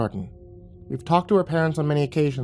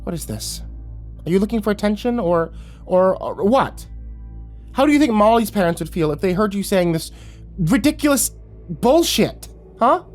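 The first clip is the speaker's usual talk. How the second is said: spat; 10 semitones higher than usual. A narrator's reading. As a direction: spit the words out. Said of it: "clenched her teeth and spat".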